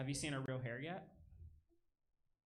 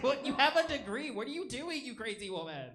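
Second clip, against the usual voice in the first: shocked disbelief; 13 semitones higher, 14 dB louder than usual. Retold or imitated. Shocked reply to grandmother.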